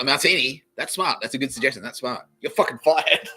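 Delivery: mock boss. Mimicking boss firing for smartness.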